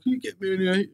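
high, pleading voice, as if through tears; desperate crying plea. Retold or imitated. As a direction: beg the dealer in a teary voice. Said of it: "it was the voice that you done".

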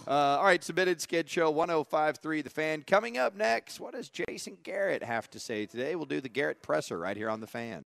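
upbeat station sign-off before the break; lifted radio presenter voice; radio host outro. Real, not acted. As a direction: tease what's coming up next on air.

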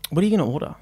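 hushed gossip whisper. Acted. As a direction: whisper behind her back. Whispered aside at lunch skit.

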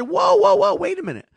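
loud, high indignant pushback; shouting back at the airline clerk; retold shout back. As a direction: fire the order right back at her. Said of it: "I said".

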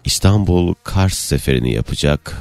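low, slow pilot cabin announcement; deep, unhurried captain over the intercom; airline captain announcement. Pretend. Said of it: "bir uçak kaptan anonsu geçer misin". (pilot anonsu, alçak ve yavaş)

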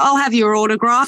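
retold Australian pub local asking for autographs; awful Australian accent. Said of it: "Sorry for the awful Australian accent".

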